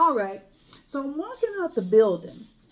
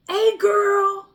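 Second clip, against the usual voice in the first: high, loud call across the doorway; 11 semitones higher, 9 dB louder than usual. Retold or imitated. DJ calling after her at the exit, loud call. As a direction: holler to get her attention. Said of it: "he yells out".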